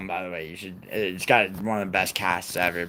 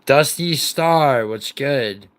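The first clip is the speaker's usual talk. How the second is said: slow, drawn out and loud, a half-serious yell of the name; mock all-caps yell; 5 semitones higher, 7 dB louder, much slower than usual. Streamer mimics an angry viewer yelling at him in caps. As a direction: belt out "Dusty Star" like an all-caps chat message. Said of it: "yelling in all caps".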